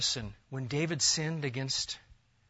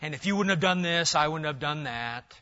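blaming excuse; 4 dB louder than usual. Retold or imitated. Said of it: "We don't say things like".

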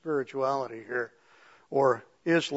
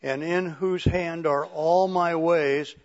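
measured, solemn reading of a prayer. Acted. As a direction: read it out deliberately as a prayer. Reads a prayer aloud.

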